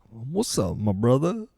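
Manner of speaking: put-on greeting, swinging up high at the end; soft greeting with a big upward lift; code-switched greeting. Speaker showing how he switches depending on company, put-on greeting.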